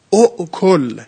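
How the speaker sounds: اؤکل with the full hamza. Shown as a demonstration. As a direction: sound out the hamza at the start of اؤکل. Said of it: "با همزه است".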